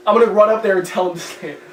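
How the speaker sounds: threatening friend. Retold or imitated. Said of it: "clearly, I was like".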